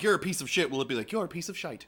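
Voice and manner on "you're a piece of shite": higher mock British lilt; UK accent. Shown as a demonstration. Translator output for a UK listener, British accent. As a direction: lightly put on a UK accent with "shite". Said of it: "talking to someone in the U K".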